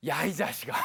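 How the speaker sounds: acted parent's telling-off; mock-loving scolding. Parent to child over a bad test score, mock scolding. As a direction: comically scold your child. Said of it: "사랑을 가득 담아서".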